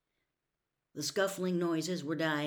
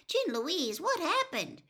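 higher, strained comfort; worried aunt; 13 semitones higher than usual. A narrator's reading. Aunt tells the girl her brother is unconscious, strained and high. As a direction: hold back the worry while soothing.

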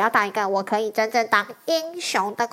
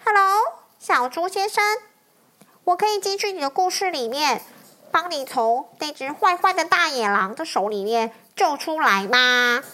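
polite dragon. Acted. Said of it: "很有礼貌地跟它说".

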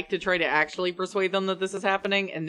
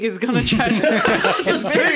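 high-pitched, laughing through the words; 3 semitones higher, 6 dB louder than usual. Real, not acted. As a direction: crack up while saying it. Players crack up over confused pig.

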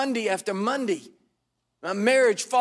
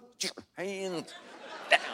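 silent plea; 8 dB quieter than usual. Pretend. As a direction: beg him silently to stop. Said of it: "sending him telepathic messages".

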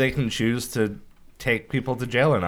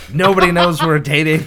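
screaming; 6 semitones higher, 8 dB louder than usual. Retold or imitated. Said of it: "I started screaming".

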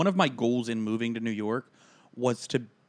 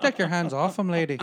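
mock jealous warning; 4 semitones higher, 3 dB louder than usual. Mock jealous protective friend.

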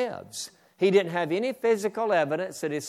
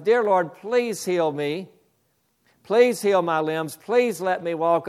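loud pleading prayer, voice raised; crying prayer; 2 semitones higher, 4 dB louder than usual. Retold or imitated. Preacher retelling a crippled woman's tearful plea, loud pleading. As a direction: beg the Lord through tears, loud. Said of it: "she was crying and praying".

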